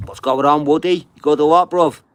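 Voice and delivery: calling out big and high to a mate; loud greeting. Real, not acted. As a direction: hail him like he's across the room. Greeting a viewer on live.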